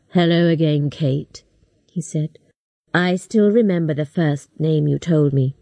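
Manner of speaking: a man sure he has won; Buff's voice. A narrator's reading. Buff speaks.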